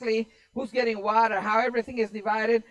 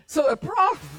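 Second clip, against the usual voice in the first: cracking up; 4 dB louder than usual. Real, not acted. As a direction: try to carry on but burst out laughing. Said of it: "I'm cracking up".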